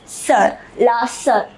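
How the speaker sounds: sœur as one syllable, "sur" with a rounded vowel; pronunciation of sœur. Shown as a demonstration. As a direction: say "sœur" slowly and clearly as "sur", for learners. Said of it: "It is pronounced".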